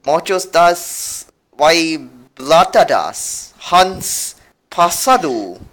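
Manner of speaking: slow, laboured mock Mexican reading; attempted Mexican accent. Shown as a demonstration. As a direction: stumble slowly through a Mexican accent. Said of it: "can do a real Mexican".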